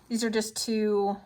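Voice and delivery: muffled by pins held in the mouth. Real, not acted. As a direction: speak through lips clamped on pins. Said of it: "don't put pins in your mouth".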